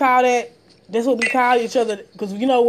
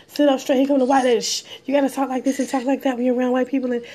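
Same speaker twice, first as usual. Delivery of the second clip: imitating mom; 2 semitones higher than usual. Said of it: "my mom always taught me".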